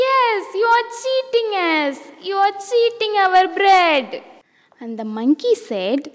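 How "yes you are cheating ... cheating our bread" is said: angry accusation. Acted. Cats accusing the monkey.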